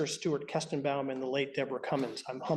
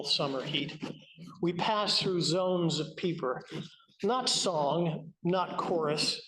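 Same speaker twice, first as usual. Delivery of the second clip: measured poetry reading with deliberate phrasing; lightly lifted recital, line by line; poem reading. Acted. Poet reading a spring peeper poem to a library audience, measured recital. Reads own poem aloud.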